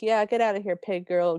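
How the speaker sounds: mock call-out from one of the family; jeering step family. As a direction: call it after someone leaving. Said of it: "They do different voices".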